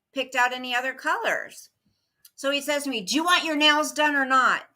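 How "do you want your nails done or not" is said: mild mock yell, a bit louder and higher; retold yell. Retelling how the nail tech yelled at her, mild yell. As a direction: imitate someone yelling, only half at full force. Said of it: "yelled at me in front of everybody".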